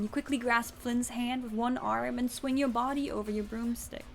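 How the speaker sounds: plain reading voice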